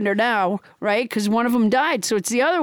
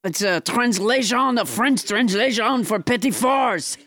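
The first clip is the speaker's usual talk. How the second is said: mock French accent; French Trump; 4 semitones lower than usual. French Trump explains the translation to co-host, French accent. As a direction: explain it in hammed-up French tones. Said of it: "your extremely realistic accent".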